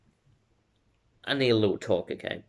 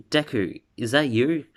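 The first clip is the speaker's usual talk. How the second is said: slightly raised, unangry question; not angry, questioning; 4 semitones higher than usual. Acted. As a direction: ask it with mild surprise, no anger. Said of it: "he doesn't say it angry".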